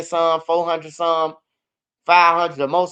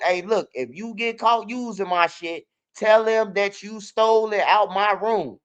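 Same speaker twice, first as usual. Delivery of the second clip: retold heated scolding; 4 semitones higher than usual. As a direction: spell it out to him in frustration. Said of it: "Bro, I was heated".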